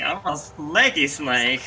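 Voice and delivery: drawn-out s like a snake. Pretend. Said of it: "you sound like a snake".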